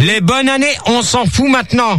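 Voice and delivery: real exasperated insistence; impatient dismissal. Real, not acted. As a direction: shut the greetings down emphatically. Host repeats his brush-off.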